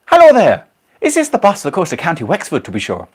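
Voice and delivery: loud, high, hammed-up Irish greeting; bad Irish accent. Asking an Irish bus driver for the Wexford bus, bad Irish accent. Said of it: "not impressed with the accent".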